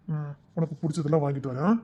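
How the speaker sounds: softly choked, crying through the words; a tearful promise; tearful comfort. Acted. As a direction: hold back tears while reassuring her. Comforting while both tearful.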